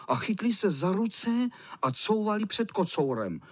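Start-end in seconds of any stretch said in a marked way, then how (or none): none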